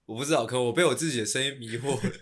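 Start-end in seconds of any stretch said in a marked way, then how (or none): none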